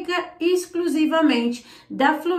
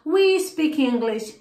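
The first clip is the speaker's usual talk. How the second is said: slow model sentence; slower than usual. Shown as a demonstration. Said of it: "se eu quero falar nós".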